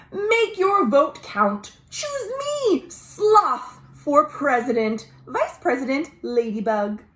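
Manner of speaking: a gentle animal candidate asking for votes; Sloth's voice. Acted. Teacher reading aloud, lightly voicing Sloth's plea.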